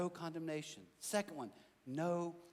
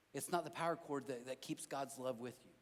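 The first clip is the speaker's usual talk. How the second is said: normal talking voice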